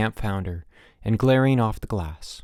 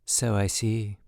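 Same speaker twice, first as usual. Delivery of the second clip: glum; slower than usual. A narrator's reading. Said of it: "observed glumly".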